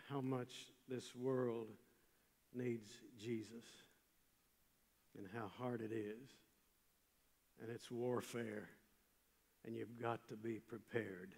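soft and measured, with pauses; solemn appeal. Real, not acted. Preacher warns young people about spiritual warfare, hushed and solemn. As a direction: drop softly into a grave charge, phrase by phrase.

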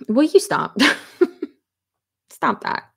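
laughing through a telling-off; laughing protest. Real, not acted. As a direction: tell them off while cracking up. Laughing at a chat comment.

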